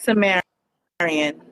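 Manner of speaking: "Sumerian" drawn out very slowly; name pronounced carefully. Shown as a demonstration. Guest shows the host how to say her name, "Sumerian" said slowly. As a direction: say "Sumerian" slowly so it can be repeated. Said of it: "how you say your name again".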